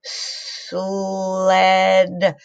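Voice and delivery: "Sled" stretched sound by sound; drawn-out sounding. Shown as a demonstration. Teacher helping kids blend the word, stretched. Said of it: "Now I'll help".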